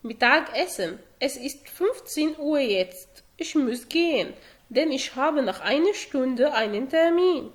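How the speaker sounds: very slow, spaced German for learners; slow, careful classroom German; slow model reading. Shown as a demonstration. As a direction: spell each word out slowly so students can follow. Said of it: "slow model lines for practice".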